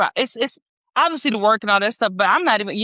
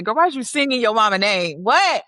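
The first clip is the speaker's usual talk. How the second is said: playful call out. Real, not acted. Talking to the daughter.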